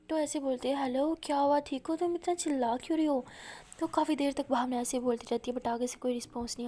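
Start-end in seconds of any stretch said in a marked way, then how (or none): 0.8-3.2 worried call. Acted. Worried, calling out on phone.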